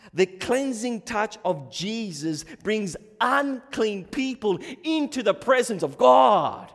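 full-force preaching. Real, not acted. Preacher urging congregation not to make it about themselves, full-force preaching. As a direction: preach it hard to the room.

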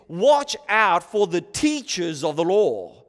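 emphatic reading with weight on "Watch out"; emphatic warning. Shown as a demonstration. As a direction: punch "Watch out", firmly. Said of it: "rendering is probably more emphatic".

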